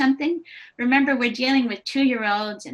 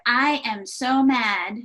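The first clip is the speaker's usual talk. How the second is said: imitating an angry child; 4 dB louder, slower than usual. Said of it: "And he said".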